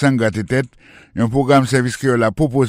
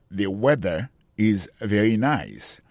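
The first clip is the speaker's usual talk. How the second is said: slow, clear teaching read; slow model sentence; 2 semitones lower, slower than usual. Shown as a demonstration. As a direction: lay out each word for learners. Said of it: "teacher models the sentence". (li dousman pou elèv yo)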